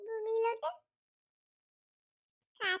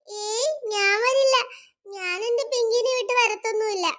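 crying refusal. Acted. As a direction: sob out the refusal. Refusing to be taken away.

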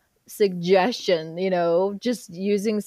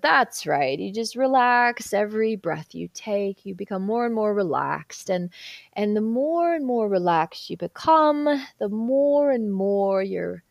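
hypnotic induction. Retold or imitated. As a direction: lull them into relaxing, stretching key words. Retold hypnosis induction, lulling the client.

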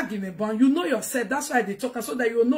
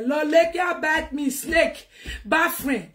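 raised, higher outburst; indignant shout; 5 semitones higher, slower than usual. Real, not acted. Venting to viewers about a betraying friend, shouting.

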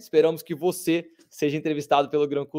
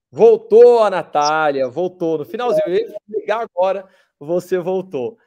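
excited; 4 semitones higher, 8 dB louder than usual. Real, not acted. Host greets returning guest.

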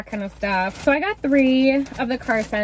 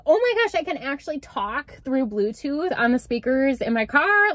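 retold delight, jumping up then settling; all excited; 3 semitones higher than usual. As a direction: act out your thrilled reaction. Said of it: "like, all excited".

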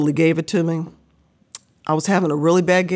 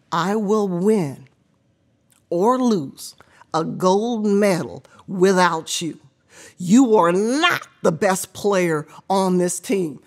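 slow coach lecture; slower than usual. Retold or imitated.

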